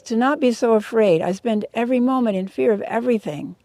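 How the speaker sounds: fearful pig. Pretend.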